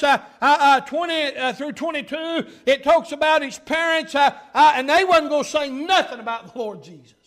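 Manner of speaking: energetic pulpit delivery, bursts of volume; preaching. Real, not acted. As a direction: press the point to the congregation. Preaches at full force.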